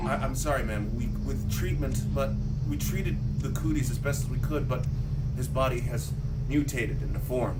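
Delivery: low, soft bad-news doctor voice; lightly voiced doctor breaking grim news; grave doctor. Doctor quietly telling a mother about her son, low and grave. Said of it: "He's all like".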